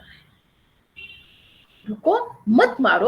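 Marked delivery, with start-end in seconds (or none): 1.9-3.1 short break after "रुको", keeping "मत मारो" together; pause after रुको. Shown as a demonstration. Teacher repeating the example sentence, pause after "रुको". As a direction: say "रुको", brief stop, then "मत मारो". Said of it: "अगर विराम चिन्ह का सही ज्ञान".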